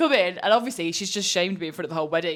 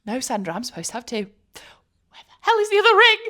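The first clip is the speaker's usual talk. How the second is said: panicked mock yell; 7 semitones higher, 9 dB louder than usual. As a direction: shriek it out, losing it over the ring. Retold panic, inner scream.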